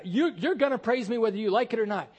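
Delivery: mocking laugh. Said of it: "it's that attitude".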